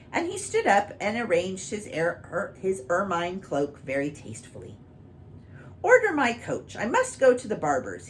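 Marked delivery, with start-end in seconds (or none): 5.8-8.1 high, loud grand command; magnificent king. Acted. King ordering his coach, grandly high and loud. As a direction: announce it like a vain king, much higher and louder. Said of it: "he said magnificently".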